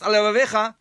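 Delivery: "Al levavecha" hurried so the lameds merge; "Al levavecha" rushed into one word; rushed reading. Shown as a demonstration. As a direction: rattle off "Al levavecha" too fast. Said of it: "if a person will go fast".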